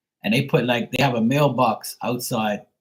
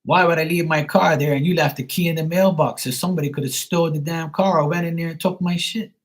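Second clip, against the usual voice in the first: angry retelling; 6 semitones higher than usual. Retold or imitated. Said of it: "And I'm like".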